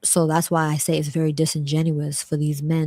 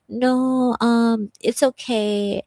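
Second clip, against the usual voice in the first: nervous polite refusal; 7 semitones higher, much slower than usual. Retold or imitated.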